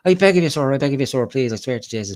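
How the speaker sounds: very high, loud pleading, fading to normal; hammed-up begging. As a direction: grovel like a desperate beggar. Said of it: "And I'm like".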